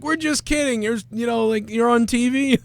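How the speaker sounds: high, light let-off voice; prank reveal. Acted. Pranksters telling the victim he's on TV, joking.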